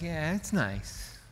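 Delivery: slow, soft, bored "nice"; unimpressed God. Pretend. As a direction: shrug it off like it's not enough. God unimpressed by creation's praise.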